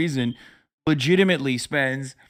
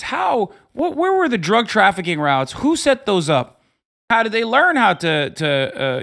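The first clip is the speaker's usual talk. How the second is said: mock bafflement; 5 semitones higher than usual. Mock puzzled rhetorical questions.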